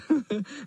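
cat cackle. Acted. Cat laughing.

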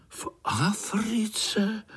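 slow, breathless whispered gasp; amazed whisper in chorus. Acted. Spiders whispering together in amazement about Africa. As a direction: whisper it, stunned. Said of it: "užasli všichni sborem".

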